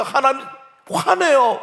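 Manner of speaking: high, loud warning; heated warning. Real, not acted. Preacher warns parents God gets angry, heated. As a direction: cry out in alarm.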